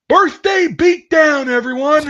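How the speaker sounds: loud, high, slow drawn-out call; shouted command. Retold or imitated. Drill sergeant calling birthday beatdown, loud slow shout. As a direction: call the platoon to attack. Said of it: "and he goes".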